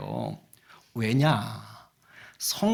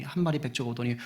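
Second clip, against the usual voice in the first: ordinary talk, nothing marked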